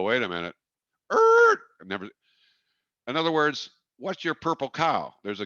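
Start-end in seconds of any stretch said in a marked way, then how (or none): 0.0-2.1 mock astonishment. Driver spotting a purple cow.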